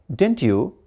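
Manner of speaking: "didn't you?" with the voice going up; "didn't you?" rising, unsure of the answer; rising question tag. Shown as a demonstration. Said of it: "Again, because I didn't know".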